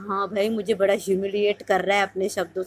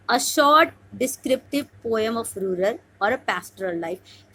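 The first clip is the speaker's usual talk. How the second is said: slow dictation reading; much slower than usual. Shown as a demonstration. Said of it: "teacher reads out exam question".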